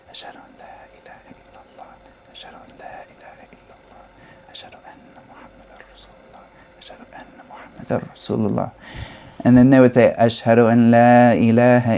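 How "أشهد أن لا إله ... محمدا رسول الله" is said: silent unvoiced whisper, quick; whispered under the breath. Shown as a demonstration. Teacher demonstrating the silent part of tarjih, whispered. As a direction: breathe the words with no voice. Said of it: "they would say silently under their breath".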